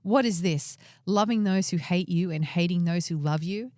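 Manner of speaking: a hint of a stern commander rebuking his king; dramatic reading of Joab. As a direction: read it like Joab scolding the king. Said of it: "you're much better reading it".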